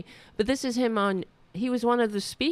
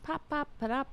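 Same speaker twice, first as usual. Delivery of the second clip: playful popping; 9 semitones higher, 7 dB quieter, faster than usual. Acted. Playful popping sounds to cat.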